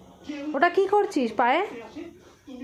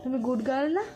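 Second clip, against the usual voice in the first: gentle coaxing; 5 semitones higher than usual. Real, not acted. Coaxing the child to apologise.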